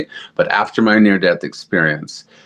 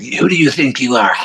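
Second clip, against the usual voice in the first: higher-pitched imitation of an outraged stranger; mock indignant confrontation; 7 semitones higher than usual. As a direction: challenge them in a raised, put-on voice. Retold hostile woman confronting her.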